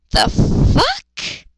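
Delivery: high breathy disbelief; stunned whispered reaction; incredulous whisper. Real, not acted. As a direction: gasp in disbelief. Reader reacts to absurdity.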